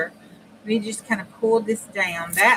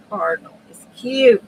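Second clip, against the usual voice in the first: gushing; 2 semitones higher, 10 dB louder than usual. Real, not acted. Gushing over cardinal picture.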